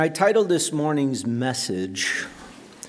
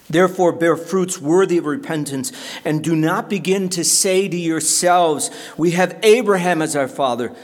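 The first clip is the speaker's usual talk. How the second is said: raised, loud prophetic warning; forceful rebuke; 6 semitones higher, 6 dB louder than usual. Acted. John the Baptist confronting religious leaders, forceful rebuke. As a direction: confront them with force as you read.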